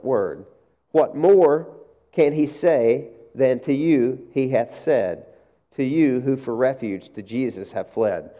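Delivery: slow, solemn recitation of the hymn; recited hymn. Acted. Preacher reciting an old hymn to the congregation, slow and solemn. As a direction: recite the hymn lines slowly and reverently. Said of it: "an old Christian hymn".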